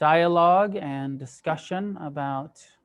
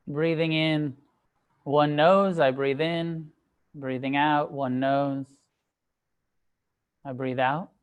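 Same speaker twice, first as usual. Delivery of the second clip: measured meditation guidance with long pauses; unhurried meditation teacher, phrase by phrase; guided meditation. Acted. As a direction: guide them gently into stillness, leaving space between phrases. Leads a sitting meditation.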